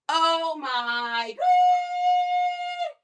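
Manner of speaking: high, slow, sing-song coaxing; pet baby talk. Acted. To her pet while handing over a treat, cooing high.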